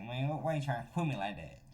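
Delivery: put-on loose, slurred Atlanta accent; Atlanta accent imitation. Reactor showing how Georgia talks, light Atlanta accent. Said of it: "Georgia, Atlanta specifically. They're like".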